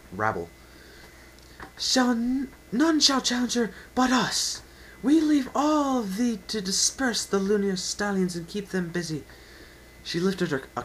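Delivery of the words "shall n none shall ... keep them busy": put-on loud, high royal decree in old speech; queenly battle command, much louder; regal command. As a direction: order the army like a princess. Celestia commanding her troops.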